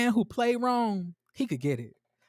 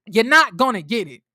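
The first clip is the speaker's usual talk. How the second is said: cutting taunt; 5 semitones higher, 6 dB louder than usual. Retold or imitated. Acting out her jab about the interview.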